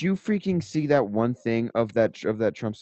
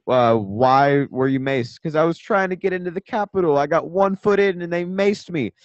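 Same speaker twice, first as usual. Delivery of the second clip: retelling an interview; 5 semitones higher, 6 dB louder than usual. Retold or imitated. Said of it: "you know what this lady said".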